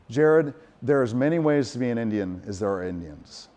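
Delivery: lightly imitated Southern aunt; a hint of a Southern accent, reassuring a nephew. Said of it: "in her beautiful Southern accent".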